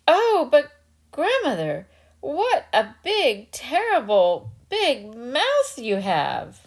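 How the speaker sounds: high, slow, drawn-out fear; alarmed girl. Acted. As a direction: linger on terrible, now scared. Little Red Cap frightened.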